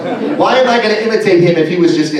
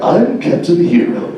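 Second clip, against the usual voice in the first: jerky superhero; slower than usual. Shown as a demonstration. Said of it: "he became like".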